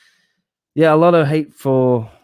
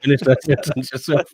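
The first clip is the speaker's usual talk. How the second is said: chewing while talking; mumbled through a mouthful; mouth full; 3 semitones higher than usual. Real, not acted. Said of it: "We're gonna make a clip of that".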